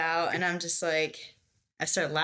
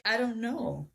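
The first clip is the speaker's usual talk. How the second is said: crying; 6 semitones higher than usual. Retold or imitated. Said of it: "I burst into tears".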